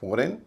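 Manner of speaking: फॉरेन ending in a full "-rain"; expected wrong pronunciation. Shown as a demonstration. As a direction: say फॉरेन with both vowels full, rising. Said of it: "आप कहेंगे". (फॉरेन, आख़िर में पूरा "रेन")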